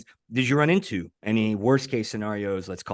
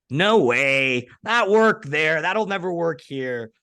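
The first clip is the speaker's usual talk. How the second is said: loud, higher-pitched scoffing skeptic; devil's advocate disbelief; 6 semitones higher, 5 dB louder, slower than usual. Acted. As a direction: play the doubter dismissing it outright. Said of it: "Let me do the proverbial devil's advocate".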